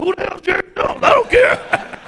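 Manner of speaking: high, loud, dismissive; defiant retort. Retold or imitated. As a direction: toss it off like nobody cares.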